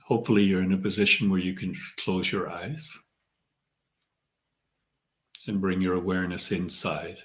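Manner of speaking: measured meditation guide, long pauses between phrases; guided meditation. Acted. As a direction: ease them inward, leaving room to breathe. Leads a centering meditation.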